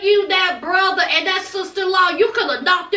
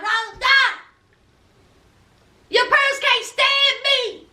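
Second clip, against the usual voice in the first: higher-pitched exasperated mock pleading; exasperated retelling of a girlfriend's complaint; frustrated protest; 5 semitones higher than usual. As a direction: argue it high, imitating a fed-up fiancée. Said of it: "she's frustrated".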